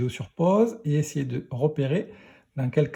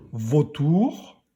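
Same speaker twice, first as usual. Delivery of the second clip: vautour with the O drawn out; stressed O. Shown as a demonstration. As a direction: lean long on the first syllable of vautour. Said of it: "où tu entends le son O".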